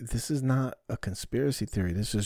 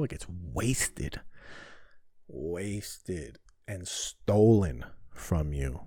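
slow bitter emphasis; 4 semitones lower, 4 dB quieter, much slower than usual. Real, not acted.

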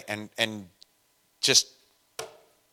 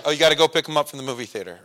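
chipper 1950s ad; much faster than usual. Retold or imitated. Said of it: "like, the old commercial".

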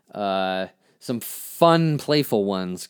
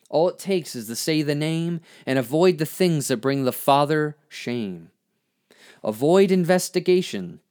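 emphatic spoken-word lines, rising and settling; poem recitation; 2 semitones higher than usual. Acted. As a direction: recite with deliberate swells and drops. Reads own poem aloud.

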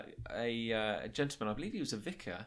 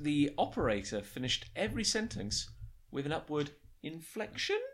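lightly voiced narrator reading the letter; put-on narrator voice. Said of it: "putting on a narrator".

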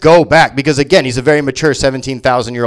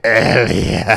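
put-on drunk ET; 6 semitones lower than usual.

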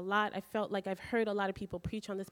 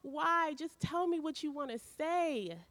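higher, pleading cries of why at Jesus; retold angry pleading; 5 semitones higher than usual. Preacher retelling his angry prayer to Jesus, higher and frustrated. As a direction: raise the pitch and press him, frustrated. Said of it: "And then I got angry and I'm like".

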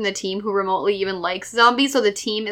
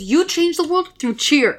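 slow, higher-pitched movie line; mock earnestness; 5 semitones higher than usual. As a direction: imitate a cheesy inspirational line, drawn out. Retells a cheesy movie line.

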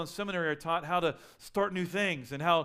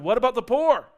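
raised, higher voice, pressing a hard question; loud prophet outcry; 6 semitones higher, 11 dB louder than usual. Retold or imitated. Preacher voicing a prophet challenging the church, loud and higher. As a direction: cry out for the poor. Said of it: "and they're going".

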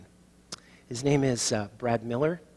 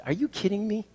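high, loud playful outburst; mock disbelief; 10 semitones higher, 5 dB louder than usual. Pastor retelling his protest to the waitress, playfully incredulous. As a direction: jokingly protest the single spoon.

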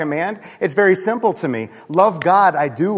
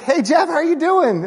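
high, cheery greeting over the fence; friendly neighbor; 11 semitones higher than usual. Retold or imitated. Neighbor Jim greeting Jeff over the backyard fence, high and cheery. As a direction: call out like an eager neighbor.

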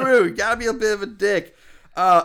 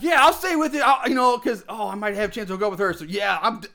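put-on laughing, eager teenage suck-up; eager teen boy; faster than usual. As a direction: lay it on thick. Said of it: "I would lay it on thick".

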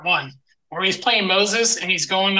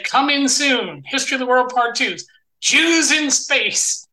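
movie trailer announcer; 5 semitones higher than usual. Retold or imitated. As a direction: announce it like a coming-soon trailer, stretching the last words. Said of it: "So Mel Brooks at the end of the first said".

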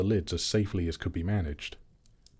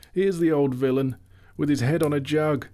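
higher, louder gleeful jeer; gleeful discovery; 5 semitones higher, 3 dB louder than usual. Acted. Elf gleefully points out the drunk butler. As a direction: crow over finding him asleep on a jug.

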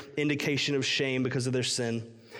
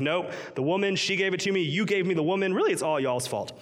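blame-shifting Adam; 3 semitones higher than usual. Retold or imitated. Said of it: "So he's like".

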